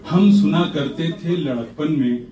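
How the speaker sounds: playful measured poetic recital; humorous nazm recitation. Acted. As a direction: recite with a wry smile.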